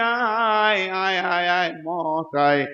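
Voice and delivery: long high wail, falling away at the end; hammed-up drawn-out call for death; crying out. Damned man begging death to come, acted wailing cry. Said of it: "চিৎকার মেরে বলবে".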